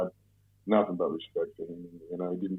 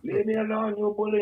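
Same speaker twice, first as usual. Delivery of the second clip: high, slow, hammed-up Swedish accent; mock Swedish tourist accent, much higher; fake Swedish accent; 13 semitones higher than usual. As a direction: play a flustered Swede in a fake Swedish accent. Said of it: "I put on my best Swedish accent".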